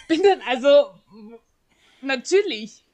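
words pushed out through a laugh. Real, not acted. Laughing while telling her friend about the exam.

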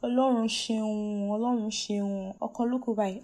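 mocking an auntie who congratulates the graduate; gushing auntie impression. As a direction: ham up the congratulating auntie, pitch way up. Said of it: "The next thing they say is".

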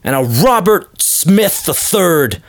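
high, sharp protesting dad; insistent father. Retold or imitated. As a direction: cut her off like a flustered snob father. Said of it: "He's like".

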